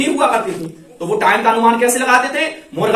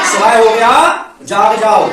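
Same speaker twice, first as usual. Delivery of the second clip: rooster's wake-up call; 5 dB louder than usual. Retold or imitated. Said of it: "क्या संदेश देता है वो अपनी भाषा में".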